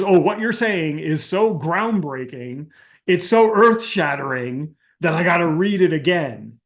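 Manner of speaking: sarcastically gushing, stretched emphasis; mock awe. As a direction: gush as if it were earth-shattering. Sarcastically mocks overblown social posts.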